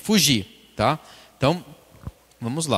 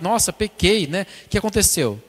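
mildly alarmed, higher pitched; mock despair; 4 semitones higher than usual. Preacher voicing a sinner who panics over sin, mildly despairing. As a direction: lightly play a sinner in dismay. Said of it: "Nem se desesperar com o pecado".

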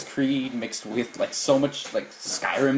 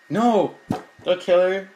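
loud alarmed cry; alarmed shout; 4 semitones higher, 4 dB louder, slower than usual. Real, not acted. Reacts to scene on screen.

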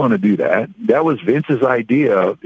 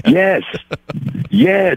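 emphatic agreement; 8 semitones higher than usual. Real, not acted. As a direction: burst out in delighted agreement. Delighted agreement with listener's imitation.

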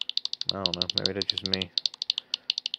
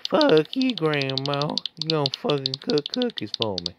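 mock tyrant voice making grandma serve; bossy mock voice; 4 semitones higher than usual. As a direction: lord it over grandma in a silly voice. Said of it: "I don't know why I'm doing that voice".

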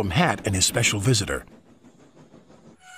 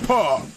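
scornful puff; 6 semitones higher, 3 dB louder than usual. Acted. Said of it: "puffed Gordon".

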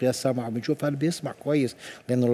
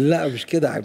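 louder, laughing denial; real laughing; 6 dB louder than usual. Real, not acted. Doctor denying he drifted off when asked about treatment, laughing. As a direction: protest through the tail of a laugh.

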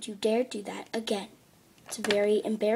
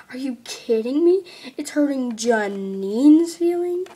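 indignant protest; 6 dB louder than usual. Acted. Indignant kid arguing with mom.

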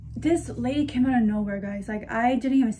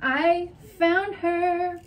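excited squeal; 6 semitones higher, much slower than usual. Real, not acted. Excited find, squeaky far voice.

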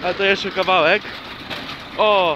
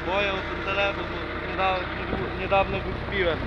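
on a bumpy road; 9 dB quieter than usual. Real, not acted. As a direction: voice jolted by a shaking tractor. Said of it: "Ale trzęsie". (głos trzęsący się w traktorze)

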